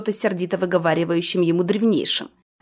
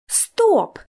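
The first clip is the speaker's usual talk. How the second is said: sharp stop; 12 semitones higher than usual. A narrator's reading. Orti stopping the elder mid-thought, sharp exclamation. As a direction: cut everyone off at once.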